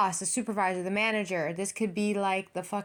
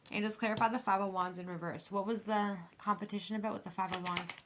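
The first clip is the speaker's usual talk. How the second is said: softer, asking the angels under her breath; quiet request to angels; 3 semitones lower, 8 dB quieter than usual. Real, not acted. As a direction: murmur a request to the spirits. Asks angels quietly for clarity.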